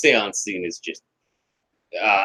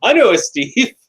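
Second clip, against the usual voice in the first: excited medium; 9 semitones higher, 3 dB louder, slower than usual. Retold or imitated. Medium calling out names.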